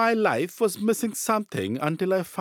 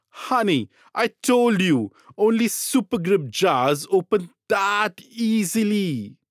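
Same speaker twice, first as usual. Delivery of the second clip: exasperated wife; 5 semitones higher than usual. Acted. Wife's acted quote in ad.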